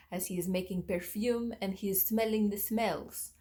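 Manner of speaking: a vague attempt at a French accent; botched French accent. Describing the perfume novel's hero in a bad French accent. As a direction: try a French accent and miss. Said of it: "That's not a French accent".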